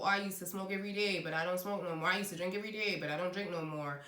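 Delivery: slipping lightly into an American accent. Real, not acted. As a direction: let an American accent creep into your sentence. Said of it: "picked up an American accent".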